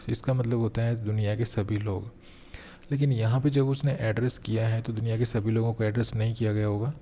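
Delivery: usual speaking voice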